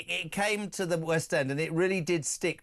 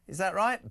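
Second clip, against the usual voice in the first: Is that right? asked with a rising, unsure lift; puzzled rising query; questioning tune; 3 semitones higher than usual. Shown as a demonstration. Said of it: "Martin Bailey".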